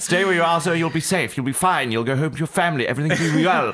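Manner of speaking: put-on prim English accent. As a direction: coax him in a prim English accent, slowing at the end. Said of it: "Very prim and proper".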